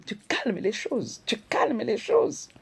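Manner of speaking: slow, drawn-out soothing advice. Shown as a demonstration. Urging wives to calm quarrels, slow and soothing. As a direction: stretch each word to calm the room.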